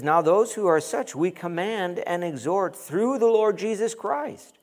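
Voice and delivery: preacher reading the verse out; scripture reading. Real, not acted. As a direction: lift the verse up like a proclamation.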